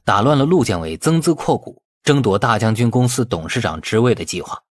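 ordinary delivery

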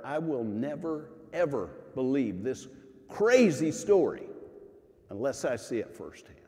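a stubborn doubter digging in his heels; emphatic refusal. Shown as a demonstration. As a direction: Thomas stubbornly refusing to believe. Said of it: "The last words are".

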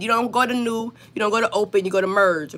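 not New, not Open: land on "Merge"; walk the viewer to "Merge"; stress on Merge. Shown as a demonstration. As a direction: teacherly contrast ending on "Merge". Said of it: "teaching which menu to use".

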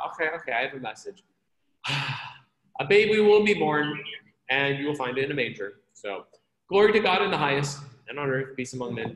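rattling off the message fast, offhand, like a chore; a messenger reading it out in a hurry with no awe; mock bored angel. Preacher mocking an angel who just hurries through the announcement. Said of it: "It's not that".

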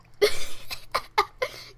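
high squeaky toot; short high imitated squeak; imitated dog noise. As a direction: mimic the dog's weird little sound. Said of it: "He made this weird sound".

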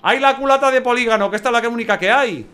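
high, loud, giddy exclamations; babbling with real joy; excited. Real, not acted. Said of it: "que estoy muy nervioso".

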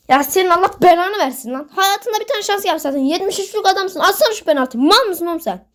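high, heated scolding of the player; real gamer rage; angry rant. Real, not acted. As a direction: tear into the player who missed. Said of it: "birazcık sinirlendim yani".

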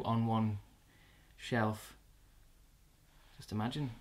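hurried low mumble; talking under his breath; hushed muttering. Acted.

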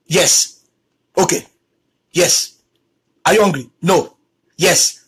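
low, terse one-word answers; curt short replies. Retold or imitated. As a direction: act out a minimal, cold-shoulder exchange in a low voice. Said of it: "this short version greeting".

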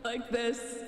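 another altered voice, short demo; second voice effect. Shown as a demonstration. Streamer demonstrating different voice effects, second altered voice. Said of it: "I'm gonna talk like".

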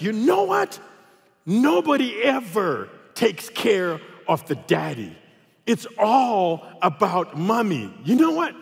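hammed-up indignation on behalf of fathers; emphatic mock pronouncement. Friend counsels a nervous new dad, emphatic mock indignation.

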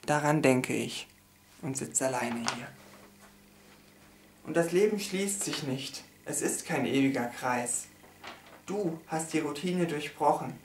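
solemn, measured poem reading with pauses; poem recitation. Acted. Reading a poem about a lost love, solemn recitation. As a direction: recite a mournful poem line by line.

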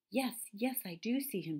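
lightly voiced chattering squirrel. A narrator's reading. Squirrel answering that it sees the stranger, lightly chattering. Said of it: "chattered the squirrel".

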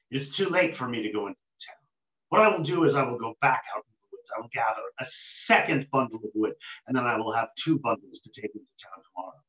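low, fast, mulling it over to himself; a tired woodcutter planning under his breath; woodcutter's inner thoughts. Acted. Woodcutter talking himself into a plan, low and quick.

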